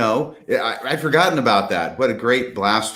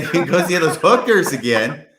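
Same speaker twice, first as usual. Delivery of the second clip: repeating it through laughter, higher; laughing quote; 6 semitones higher than usual. Retold or imitated. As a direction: quote the joke while cracking up. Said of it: "He said".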